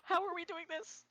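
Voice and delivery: high, loud mock panic. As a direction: squeal in fake alarm. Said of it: "we're like".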